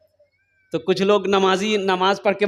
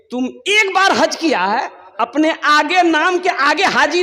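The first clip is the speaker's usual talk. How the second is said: indignant retort; 5 semitones higher than usual. Acted. Worshipper rebukes the haji.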